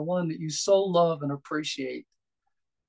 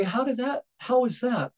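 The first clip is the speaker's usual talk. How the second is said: wondering question; 6 semitones higher than usual. Retold or imitated. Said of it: "suggest that you say".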